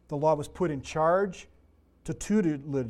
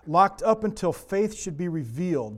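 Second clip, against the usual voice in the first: scripture reading; 3 dB louder than usual. Acted. Reads scripture aloud.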